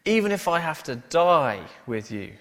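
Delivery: emphatic insistence, DIE pushed out loud; Peter. Acted. Peter insisting to Jesus that he would die, emphatically. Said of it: "Peter insisted emphatically".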